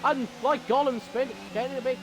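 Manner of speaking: keyed-up motorsport commentator; excited race commentary. Real, not acted. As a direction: call the racing action with rising excitement. Live race play-by-play.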